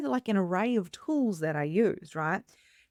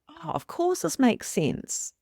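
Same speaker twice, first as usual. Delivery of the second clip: husband's understanding reply; 8 semitones higher, slower than usual. Retold or imitated.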